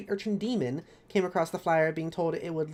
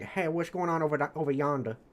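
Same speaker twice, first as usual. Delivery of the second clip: put-on playful imagined southern accent; casual southern greeting, mock accent; heavy southern accent. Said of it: "heavy southern accents".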